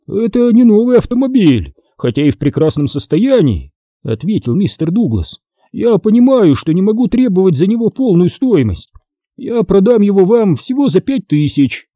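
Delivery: lightly voiced anxious old man. A narrator's reading. Seller urging the family to buy, nervous. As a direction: push the sale a touch eagerly.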